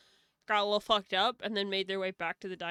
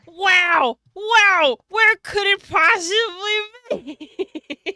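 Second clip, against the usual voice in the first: sarcastic; 9 semitones higher, 17 dB louder, much slower than usual. Acted. Mock-amazed sarcastic exclamation.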